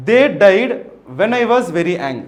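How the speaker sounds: slow word-by-word reading. Shown as a demonstration. Teacher reads option C slowly to students. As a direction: read it slowly for the class.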